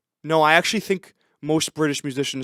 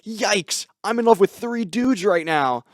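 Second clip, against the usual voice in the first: hammed-up, higher-pitched heroine; mock fourth-wall aside; 6 semitones higher, 4 dB louder, slower than usual. Game heroine confesses to the camera, hammed-up forced aside. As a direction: confide to the camera with forced drama. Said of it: "look at the camera and be like".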